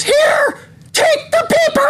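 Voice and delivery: high yelling; mock shout. Bellboy attacking guest with newspaper, high mock yell. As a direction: scream it like the shower attacker. Killer figure bursts through curtain.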